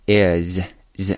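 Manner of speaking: "is" with a held, buzzing z at the end; voiced ending. Shown as a demonstration. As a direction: let the end of "is" buzz. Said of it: "后面这个浊音的部分". (is 结尾读出浊音 z)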